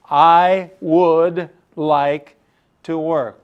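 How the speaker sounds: slow, carefully proper I would like to work; proper, eager boy. Acted. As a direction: say it like a polite, well-mannered boy. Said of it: "Very proper".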